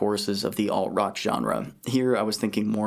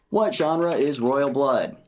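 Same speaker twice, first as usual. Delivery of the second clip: slow dictation; 4 semitones higher, slower than usual. Real, not acted. Asks voice assistant again.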